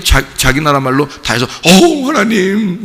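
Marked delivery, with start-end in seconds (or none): 1.6-2.8 mock repenting sigh.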